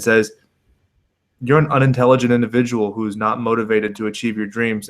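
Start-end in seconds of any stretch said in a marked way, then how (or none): 1.4-4.9 calm, level imitation of a composed fighter; polite, measured. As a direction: deliver the put-down evenly and politely. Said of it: "says it in such a polite, calm, measured tone".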